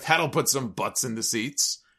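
thick, heavy, mocking sarcasm. Retelling a rival's on-air remark about the world title: imitating a sarcastic remark. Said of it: "very sarcastically said".

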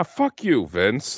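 slow, mock irritated, angry tone. Describing a wrestler who is angry at everybody: angry Ken Patera impression. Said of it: "is angry at everybody".

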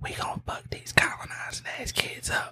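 secretive, hushed, breathy whisper. Retelling what a teammate thought she whispered in the huddle: imitating someone whispering. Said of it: "What she thought she said was".

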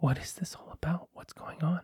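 very soft, breathy, barely voiced whisper. In a role-play game, a character whispers a question to a player. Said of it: "she whispers to you".

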